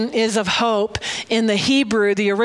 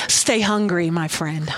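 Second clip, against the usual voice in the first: tender blessing; 5 semitones lower than usual. Acted. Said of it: "So I'm gonna tell you".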